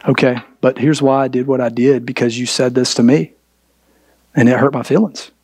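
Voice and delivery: low, even, measured voice; de-escalating tone. Shown as a demonstration. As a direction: bring the pitch down to calm an argument. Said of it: "come with this tone".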